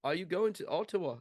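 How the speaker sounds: high attempted Canadian accent, coming out English; badly faked Canadian accent; mock Canadian accent slipping into English. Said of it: "No, that's English".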